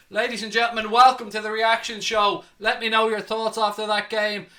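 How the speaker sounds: breathless from shouting; panting between loud words; out of breath. Real, not acted. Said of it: "Whew, I'm out of breath".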